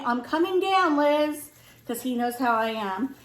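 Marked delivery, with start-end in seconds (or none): 0.0-1.5 higher-pitched mock call; retold yell down. Husband calling down to his wife, mild retold yell. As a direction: imitate someone calling from upstairs, mildly raised. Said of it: "he yells down to me".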